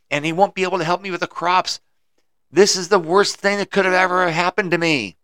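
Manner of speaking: high, loud accusing yell; yelling farmer. Acted. Farmer yelling at the wise man over his injured son. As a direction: shout it at the old man. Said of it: "The farmer yelled".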